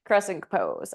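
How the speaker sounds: breathless, winded cues; out of breath. Real, not acted. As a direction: talk while out of breath. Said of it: "I'm out of breath".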